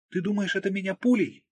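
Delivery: wounded woman protesting in pain; hurt Margo. A narrator's reading.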